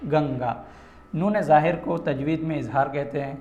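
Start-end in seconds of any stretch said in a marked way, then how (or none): 0.1-0.6 nasal n melting into g in گنگا; hidden nasal n. Shown as a demonstration. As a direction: say گنگا as gang-gaa, n not separated. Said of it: "گنگا نہیں پڑھ رہے ہم".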